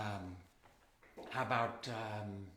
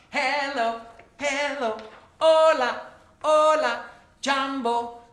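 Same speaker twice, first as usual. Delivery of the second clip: higher, louder singsong hellos; cheerful called greetings; 9 semitones higher, 10 dB louder, much slower than usual. Acted. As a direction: call out each greeting brightly to the kids. Calling out greetings to kids.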